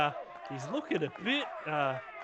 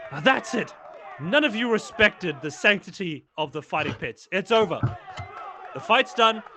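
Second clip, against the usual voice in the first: loud, commanding scolding of the crowd; stern shout; 5 dB louder than usual. Acted. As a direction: lay down the law and end the fight. Lorraine halts the fight pits.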